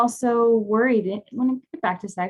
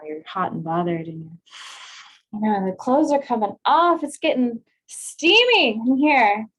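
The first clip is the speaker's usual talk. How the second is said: acting a steamy partner; 2 semitones higher, 5 dB louder than usual. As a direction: play up the heat as it builds. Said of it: "when somebody says".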